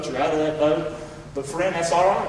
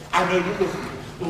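quiet prayer; 2 semitones lower, 5 dB quieter than usual. Pretend. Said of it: "You need to tell Him".

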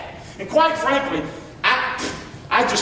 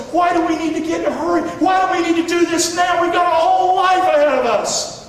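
firm declaration; 7 semitones higher than usual. Retold or imitated. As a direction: proclaim it like a promise to each other. Young couple's vow voiced.

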